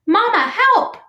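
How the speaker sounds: put-on high, loud baby-bird squeal; squeaked. Gosling cries to mother as pike attacks, high squeak. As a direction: squeak for help as a panicked chick. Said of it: "squeaked Brightbill".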